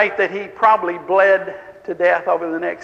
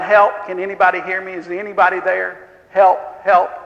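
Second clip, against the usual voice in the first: calling out for help; 3 dB louder than usual. Retold or imitated. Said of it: "He's calling out".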